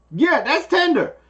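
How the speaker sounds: rising pained cry as the pressure grows; pained yelp. Retold or imitated. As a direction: yelp it out like it really hurts. Patient yelps as doctor pushes.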